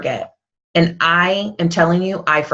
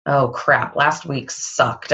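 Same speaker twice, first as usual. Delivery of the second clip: mock glum; 4 semitones lower, 4 dB quieter, slower than usual. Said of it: "when you're feeling like a failure".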